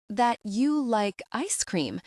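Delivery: slow, unsure, ending up like a question; hesitant guess with a lifting end. A narrator's reading. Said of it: "she said it like a question".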